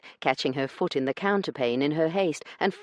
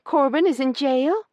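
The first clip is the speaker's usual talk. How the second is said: shocked outburst; 11 semitones higher, 7 dB louder than usual. A narrator's reading. Io shocked, voice too loud.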